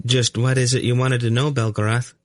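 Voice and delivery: put-on high, light boy's voice; high-pitched, guileless child; innocent boy. A narrator's reading. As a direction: ask it as a curious young boy. Blond boy speaks, narrator voices him.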